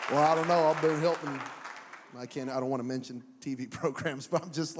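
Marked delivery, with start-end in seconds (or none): 0.1-1.4 put-on Mexican accent. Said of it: "Mexican accent".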